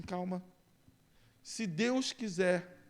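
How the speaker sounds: slow, patient brush-off as the pastor; calming pastor. Acted. Pastor calms eager member.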